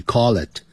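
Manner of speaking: "call it" run together as cawlit; linked call it. Shown as a demonstration. 老师示范call it连读. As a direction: join "call it" into one word. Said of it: "把它这个连在一起".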